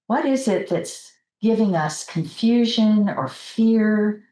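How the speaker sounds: unhurried meditation leader's voice, with long pauses; guided meditation. Real, not acted. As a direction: gently guide the group into relaxing, pausing between phrases.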